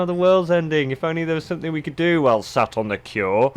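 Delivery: mock the hoarding scholars; lightly mocking high voice; mocking whine. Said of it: "as I heard Fiddle say".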